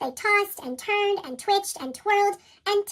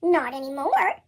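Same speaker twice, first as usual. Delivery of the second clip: porcupine snuffling; 3 semitones lower, 4 dB louder than usual. Acted. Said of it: "snuffled the porcupine".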